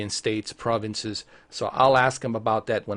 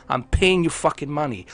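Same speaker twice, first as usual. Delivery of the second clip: indignant actor's tirade, pitched up; Denzel Washington; 4 semitones higher, 3 dB louder than usual. Pretend. Customer challenging provider over monthly charge, indignant tirade. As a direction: fire off demands like a dramatic film monologue. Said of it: "Now I sound like a Denzel Washington".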